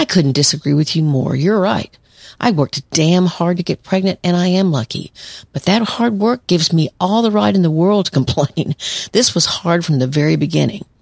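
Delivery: plain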